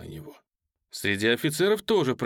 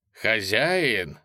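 thundered. Acted. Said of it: "загремел".

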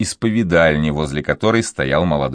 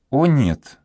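put-on higher girlish cry of denial; girl protesting to her lover; exclaiming; 7 semitones higher than usual. A narrator's reading. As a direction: cry out no in a high voice. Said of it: "воскликнула она".

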